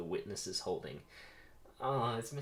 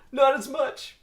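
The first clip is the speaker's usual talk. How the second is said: high shrieking yell, much higher and louder; scream; 13 dB louder, slower than usual. Acted. Barry facing Ken's flamethrower, panicked scream. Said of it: "Barry screams".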